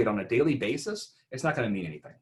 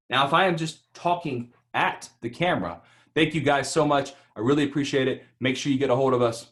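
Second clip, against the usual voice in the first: energetic demo. Shown as a demonstration. Coach showing workshop how to talk to the camera. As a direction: sell it straight to the camera. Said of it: "See the difference?".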